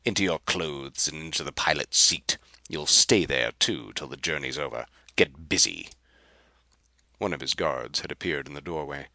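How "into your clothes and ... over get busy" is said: curt orders. Acted. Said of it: "snapped Rapaju".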